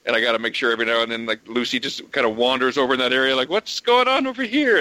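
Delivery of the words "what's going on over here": voicing the cat. Cat voiced in a story.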